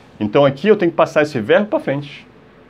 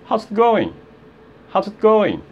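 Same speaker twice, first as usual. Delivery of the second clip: quick, contracted, higher pitch; fast demo; 7 semitones higher than usual. Shown as a demonstration. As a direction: run "how's it going" together briskly. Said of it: "se você falar rápido". (rápido, com contração)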